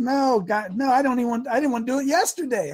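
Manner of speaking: retold protest. Husband answering his wife, protesting. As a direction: plead your case.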